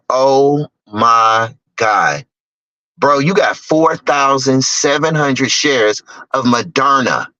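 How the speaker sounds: slow, stunned disbelief; slowly voiced astonished friend; amazed friend. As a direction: drag it out in awe.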